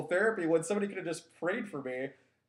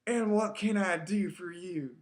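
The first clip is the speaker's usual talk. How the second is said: put-on Southern accent. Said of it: "she speaks in the Southern accent".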